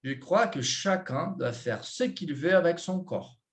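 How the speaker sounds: "Je crois que chacun" dito como frase corrida, sem separar palavras; mesma entonação do português. Shown as a demonstration. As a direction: leia a frase inteira com melodia natural até "corps". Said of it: "A entonação vai ser a mesma". (entonação natural de frase, modelo de professor)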